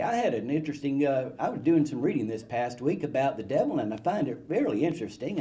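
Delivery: lightly imitated measured, conversational preacher; mild impression of a restrained town pastor; Jim Brown. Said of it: "he talked like that".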